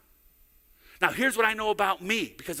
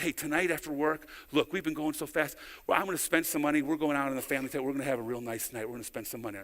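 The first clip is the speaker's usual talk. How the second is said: retold promise; 6 semitones lower, 7 dB quieter, faster than usual. Retelling his promise to wife.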